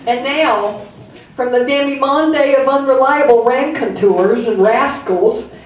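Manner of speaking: put-on light Southern-accented comedy intro. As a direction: announce the next act in a Southern accent, drawing out the name. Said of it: "read it with my southern accent".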